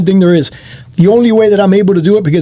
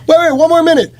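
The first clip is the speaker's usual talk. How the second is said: mock pleading; 10 semitones higher than usual. Pleading for more time on stage.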